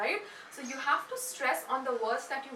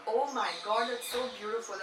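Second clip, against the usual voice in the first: admiring exclamation. Shown as a demonstration. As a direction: demonstrate delighted awe. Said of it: "the same Oh God can be".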